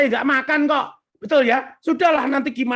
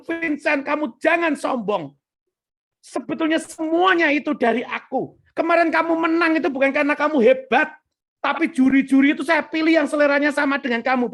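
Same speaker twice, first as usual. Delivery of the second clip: higher, insistent divine correction; God; 4 semitones higher than usual. Retold or imitated. God admonishes proud contest winner, insistent. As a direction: press the correction earnestly, as God. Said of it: "Tuhan tuh bilang".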